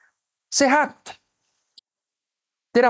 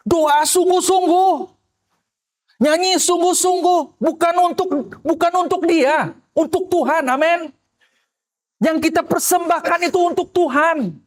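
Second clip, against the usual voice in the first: high, slow, impassioned preaching; fervent preaching; 10 semitones higher than usual. Acted. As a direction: rise up and urge them from the pulpit. Preaching at full force. (khotbah berapi-api, nada tinggi dan lambat)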